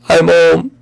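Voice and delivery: ordinary delivery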